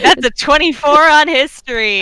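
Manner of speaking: loud, high, stretched-out cry of triumph; real excited exclamation. Real, not acted. Game master announces a twenty-four history roll, thrilled and loud. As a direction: burst out loudly at a great roll.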